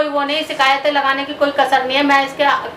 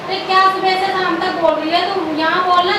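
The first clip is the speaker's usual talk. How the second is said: high-pitched quarrelsome complaint; raised-voice complaint; 3 semitones higher than usual. Acted. Mother-in-law quarrelling over food, raised-voice complaint. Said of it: "क्यों चिल्ला रही हो".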